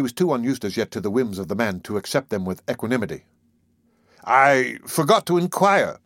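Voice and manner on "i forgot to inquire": smooth and unhurried, a touch louder; silky politeness with a sting; suave. Acted. Wolf Larsen needling Maud about her work, suavely. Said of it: "he went on suavely".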